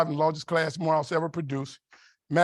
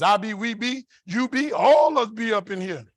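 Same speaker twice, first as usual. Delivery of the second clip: New Orleans dialect; 4 semitones higher, 4 dB louder, slower than usual. Retold or imitated. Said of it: "Nobody was conjugating a verb".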